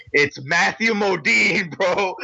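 starstruck, high-pitched and breaking into laughter; giddy fan excitement, stretched out and rising; marking out. Retold or imitated. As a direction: gush in laughing disbelief at a celebrity sighting. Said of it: "marking out at this point".

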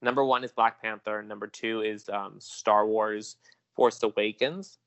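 slow, measured news reporter delivery. Acted. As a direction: read it like a TV box office report. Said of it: "Let me slip on my reporter voice".

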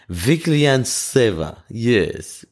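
mock Russian accent. Shown as a demonstration. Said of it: "maybe I should try a Russian accent".

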